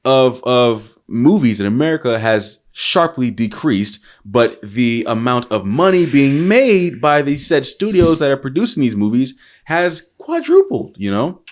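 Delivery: rally the nation like a politician; mock call to arms. Rallying fellow Americans against Hollywood, mock solemn speech. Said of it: "I wanna release a call to arms".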